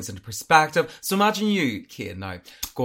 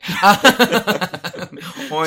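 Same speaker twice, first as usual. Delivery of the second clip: pig oink; 6 semitones higher, 8 dB louder than usual. Retold or imitated. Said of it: "Do your impression".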